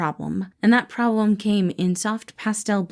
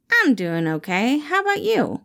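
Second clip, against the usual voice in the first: lightly voiced guarded employee; a hint of Remus, hiding his feelings; 5 semitones higher than usual. Remus answers his boss, lightly voiced and guarded.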